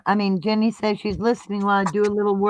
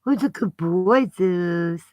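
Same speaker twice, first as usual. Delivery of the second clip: high, slow doting dog talk; squeaky praising a dog; 3 semitones higher, slower than usual. Real, not acted.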